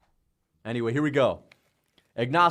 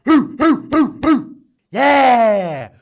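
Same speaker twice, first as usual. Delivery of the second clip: high whooping cheer, much louder; excited hooting; 8 semitones higher, 13 dB louder, much slower than usual. Real, not acted. Streamer whooping over his winning pick, excited cheer. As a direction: whoop and holler in triumph.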